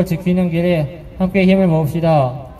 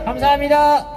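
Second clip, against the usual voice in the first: shouted thanks; 10 semitones higher than usual. Real, not acted. Ending rally speech shouting.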